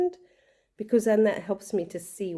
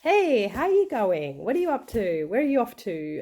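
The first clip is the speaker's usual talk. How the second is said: cheerful greeting; 4 semitones higher, 3 dB louder than usual. Retold or imitated. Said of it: "a pretty cheerful, kind of very social kind of a kid".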